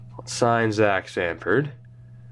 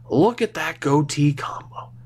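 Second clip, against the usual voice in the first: whisper; 3 semitones higher than usual. Real, not acted. Admiring player's face in game.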